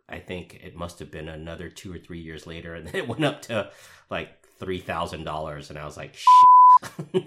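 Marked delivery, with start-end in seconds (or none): 6.1-7.2 sudden loud high yelp of dismay; shocked curse. Retold or imitated. Retelling a missed Bitcoin rise to podcast friends, a loud dismayed yelp. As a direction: blurt it out, kicking yourself.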